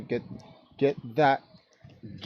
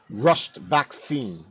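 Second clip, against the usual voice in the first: "rushed" drawn out slowly and set apart; stress on rushed; much slower than usual. Real, not acted. Host warning viewers about a hurried vaccine, "rushed" slowly stressed. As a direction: lean on "rushed", stretching it out. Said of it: "I do stress the word rushed".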